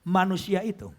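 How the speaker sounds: slow, measured Bible recitation; scripture reading. Real, not acted. Preacher reading Proverbs to the congregation, slow scripture reading. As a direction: read the verse out deliberately, stretching key words. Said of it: "Lalu dikatakan".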